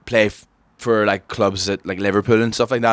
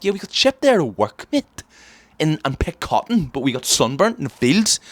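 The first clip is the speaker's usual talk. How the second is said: mock dim bloke; 3 semitones higher than usual. Mocking the man from the bar.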